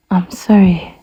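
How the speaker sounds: breathy whispered sigh of mock sorrow. Crafty croc to the elephant, whispered fake sigh. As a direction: sigh it out falsely sorry. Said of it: "the crafty croc said with a sigh".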